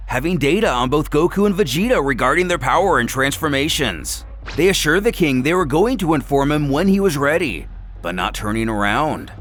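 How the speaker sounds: plain reading voice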